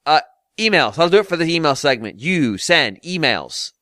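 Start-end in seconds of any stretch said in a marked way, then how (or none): 2.2-3.7 mock command. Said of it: "I'm not asking anymore. I'm telling".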